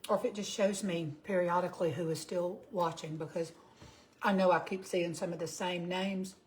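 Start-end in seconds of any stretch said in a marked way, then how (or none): 4.2-6.3 talking through a mouthful of food; chewing while talking; mouth full. Real, not acted. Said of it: "Don't mean to talk with my mouth full".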